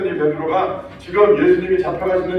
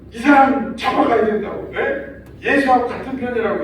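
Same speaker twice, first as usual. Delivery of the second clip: put-on servant girl stirring up crowd; 6 semitones higher than usual. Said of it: "이랬어요".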